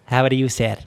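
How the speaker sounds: put-on light Arab-accented English. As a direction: imitate a salesman's Arab accent. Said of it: "It's very difficult to talk in his accent".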